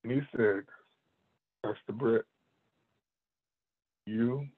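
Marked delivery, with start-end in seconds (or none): 1.6-4.5 quiet, even and unhurried, imitating the master; a calm, firm correction from a mentor. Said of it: "in a very calm voice like that".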